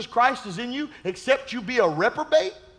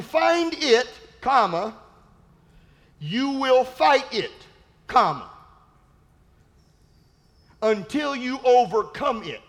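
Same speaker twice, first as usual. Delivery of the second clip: dictation. Shown as a demonstration. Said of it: "just write this down".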